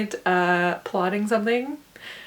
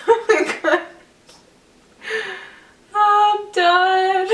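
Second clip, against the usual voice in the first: high, louder, sung out with laughter; excited sing-song; 10 semitones higher, 5 dB louder, much slower than usual. Real, not acted. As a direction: sing out the victory. Celebrating finishing all papers.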